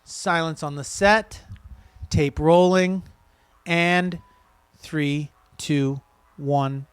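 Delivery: set countdown. Shown as a demonstration. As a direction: run the countdown for the crew. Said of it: "Try it again".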